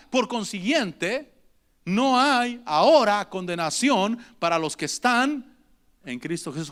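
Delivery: slow verse reading. Acted. Preacher repeats the verse slowly.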